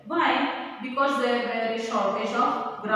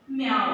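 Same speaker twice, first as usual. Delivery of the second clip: cat meow; 4 dB louder than usual. Retold or imitated. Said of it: "says the cat".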